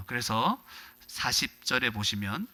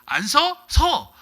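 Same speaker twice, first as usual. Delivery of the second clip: sharp, much higher, louder mock yell; 13 semitones higher, 7 dB louder, much slower than usual. Preacher mimics a rude beggar shouting at Jesus, mock yell. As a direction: shout it like a rude demand to stop.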